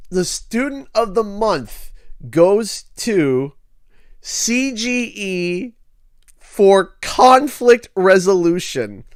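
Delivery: slow, drawn-out award announcement; grand, suspenseful presenter; award announcer. Retold or imitated. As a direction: imitate a teacher naming the winner, stretching each phrase. Teacher announces the award at assembly.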